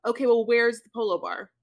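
bougie demand. Retold or imitated. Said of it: "I'd be like".

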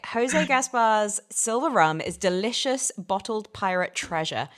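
hammy stage actor. Pretend. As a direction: read it like a pompous stage actor. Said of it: "can I get you to read the back of this".

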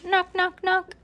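high, even sing-out knocks; imitated knocking. A narrator's reading.

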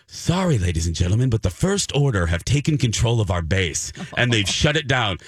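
lightly acted theme-park announcer; mock in-character park employee. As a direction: cast member staying in character. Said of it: "need them just to talk to me normally".

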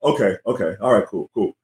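low, easygoing retold reply; imitated relaxed agreement. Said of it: "go from panicking to being relaxed".

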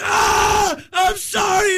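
mock yelling. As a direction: imitate a panicked yell up high. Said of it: "I'm sorry I'm yelling at you".

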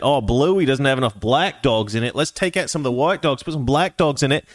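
put-on Australian accent. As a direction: do a mock Aussie complainer. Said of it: "There's my Australian accent".

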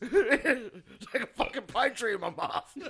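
laughing through the words. Real, not acted. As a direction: giggle as you speak. Laughing while talking.

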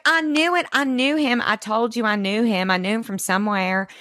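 high and eager, coming down; mock triumphant, pitch sliding back down; excited imitation of May; imitating excitement. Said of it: "And she was like".

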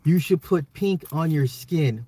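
slow, drawn-out mock sweet-talk; stretched-out mocking read-back; mocking quote. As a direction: repeat the cheesy line slowly, savoring how silly it is. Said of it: "Who talks like this?".

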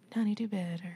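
a light Southern lilt on Honey, do better; a hint of a Southern auntie scolding, Southern. Teasing the listeners in a mild Southern accent. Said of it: "I said that in my Southern voice".

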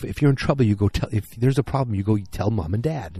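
mild mock yell; retold yelling. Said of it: "Roger yells at him".

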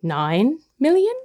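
very slow, drawn-out bid with big gaps, rising at the end; leisurely, questioning bid call; mock Sotheby's auctioneer. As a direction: imitate an auctioneer in no hurry at all. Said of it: "have a cup of tea, and then".

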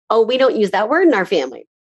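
casual correction without any drama; very relaxed. Shown as a demonstration. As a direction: say it lightly, no big deal. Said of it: "you have to say very relaxed".

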